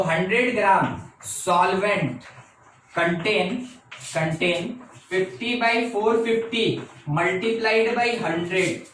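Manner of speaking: very slow, word by word, dictating notes to the class; unhurried classroom dictation with repeats. Shown as a demonstration. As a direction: spell it out slowly so students can write. Dictating final calculation.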